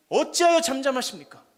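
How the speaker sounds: loud, high lament; crying out. Acted. Man of faith pleading with God, loud lament. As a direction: wail the question at God. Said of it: "하나님께 막 호소해요".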